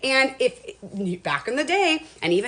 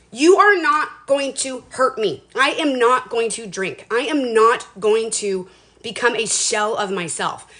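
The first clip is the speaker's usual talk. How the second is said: slow, loud and firm; determined vow; 4 dB louder, slower than usual. Retold or imitated. To herself after her dog died, slow determined vow. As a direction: plant each word like a promise. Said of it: "I was like".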